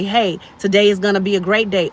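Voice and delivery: mildly upbeat morning declaration; positive self-talk. Acted. Speaker voicing someone waking up to choose a good day, mildly upbeat. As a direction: greet the day with easy confidence.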